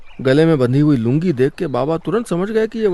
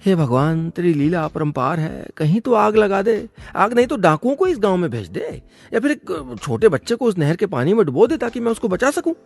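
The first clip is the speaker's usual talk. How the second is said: lightly pleading prayer to God, raised pitch; earnest little plea in a higher voice; mock prayer; 4 semitones higher than usual. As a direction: beg heaven for some trouble to fix. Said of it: "भगवान से प्रार्थना करता".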